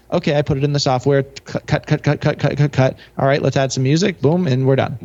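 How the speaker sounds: rapid-fire, dismissive imitation of easy video editing; mock breezy run-through. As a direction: rattle it off quickly, as if effortless. Mimics a supposedly effortless editing routine.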